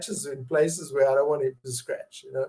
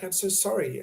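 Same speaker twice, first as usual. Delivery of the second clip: soft, quiet sympathetic response; gentle sympathy; 3 semitones higher, 6 dB quieter than usual. Shown as a demonstration. Parent answering child's bullying story with quiet sympathy. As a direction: comfort the child softly, without fixing it. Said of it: "you go like".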